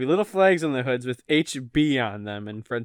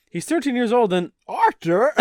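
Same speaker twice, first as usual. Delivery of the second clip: higher, lilting Irish-tinged British; amateur British accent veering Irish; British accent slipping Irish; 7 semitones higher, 3 dB louder than usual. Acted. Reading Mr Weasley's argument, wobbly British-Irish accent. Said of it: "the Irish thing".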